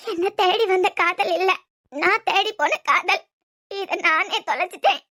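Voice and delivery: tearful sobbing. Acted.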